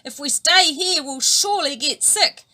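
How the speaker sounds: worried. A narrator's reading. Tuna alarmed at pollution.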